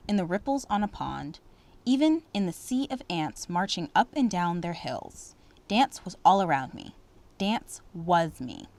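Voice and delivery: expressive read-aloud storytelling; story narration. Acted. Teacher reading a story to students, expressive narration. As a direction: read it warmly to the class.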